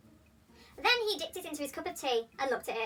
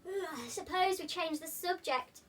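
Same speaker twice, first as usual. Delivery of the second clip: slow, yawning through the words; 5 semitones higher, 3 dB quieter, slower than usual. Acted. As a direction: say it mid-yawn.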